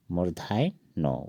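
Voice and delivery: "मूर्धान्य" drawn out slowly syllable by syllable; slow careful pronunciation. Shown as a demonstration. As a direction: spell out "मूर्धान्य" slowly for learners. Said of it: "इस तरह होगा मूर्धान्य". (धीरे-धीरे "मूर्धान्य")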